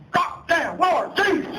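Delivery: an old actor friend's hammed-up booming hello; John Huston impression. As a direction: boom it out like a grand old director. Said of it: "like John Huston".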